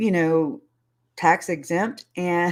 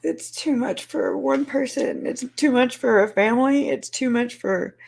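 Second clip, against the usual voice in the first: tearful; 5 semitones higher than usual. Real, not acted. Voice breaking, later crying.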